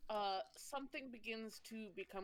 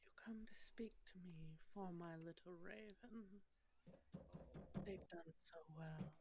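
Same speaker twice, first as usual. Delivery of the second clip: whispering goddess; 6 dB quieter than usual. Acted. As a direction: breathe it like an ancient goddess. GM voices the Raven Queen.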